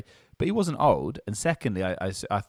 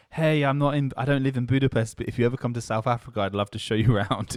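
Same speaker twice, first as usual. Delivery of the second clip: imitating girl's message; 4 semitones higher, 4 dB louder than usual. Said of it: "this girl was like".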